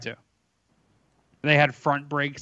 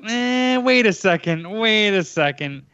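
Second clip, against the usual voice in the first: retold hesitant objection; 5 semitones higher than usual. Retold objection to calling 911.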